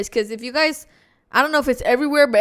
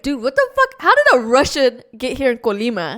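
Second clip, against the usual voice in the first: pitched up on dude, then back down; retold disbelief. Retelling her shock at a Russian girl from Colima. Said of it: "But I was like".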